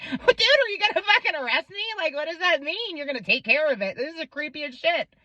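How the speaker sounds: high-pitched retold disbelief; alarmed protest. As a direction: voice jumps up, mildly freaked out. Retelling alarmed protest to creepy official.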